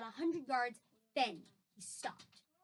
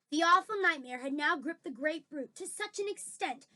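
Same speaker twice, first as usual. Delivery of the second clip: lively reading with emphatic action words; dramatic story narration; 4 semitones higher, 6 dB louder than usual. A narrator's reading. Reader describes the nightmare's grip, dramatic story narration. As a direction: tell it with mounting drama.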